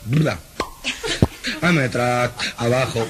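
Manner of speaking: atascado y lento, sílabas repetidas; tartamudeo cómico. Acted. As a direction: hazlo tropezar en cada palabra. Tartamudo insiste al dueño. (tartamudo suplicando trabajo entre risas)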